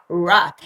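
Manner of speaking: "rat" with a clear English R at the start; initial R. Shown as a demonstration. Teacher showing learners that a starting R sounds in "rat". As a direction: open "rat" on a firm English R. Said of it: "el monstruo se despierta y hace mucho ruido".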